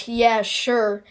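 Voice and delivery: understated sarcastic agreement. Acted. Everyone answers Wilmot's big idea, sarcastic. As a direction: brush him off with mild sarcasm. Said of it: "everyone sarcastically goes".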